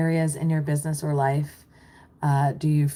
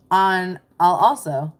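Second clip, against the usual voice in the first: put-on slip into British accent; 6 dB louder, slower than usual. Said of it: "I got British there for a second".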